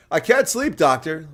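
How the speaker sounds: high, loud whiny patient pleading with the doctor; mock sleepless patient. Joking about a dull politician, a high whiny patient voice. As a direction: play an insomniac begging his doctor for help.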